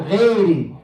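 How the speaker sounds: غير said as a thin "ghedi"; mistaken light sound. Shown as a demonstration. Teacher shows a wrong غير, mistaken light sound. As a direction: flatten غير into a light e vowel. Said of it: "So it's not".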